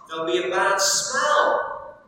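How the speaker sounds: measured, steady Bible reading to the congregation; reading aloud from the Gospel; scripture reading. Acted. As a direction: read the passage with care. Preacher reads scripture passage aloud.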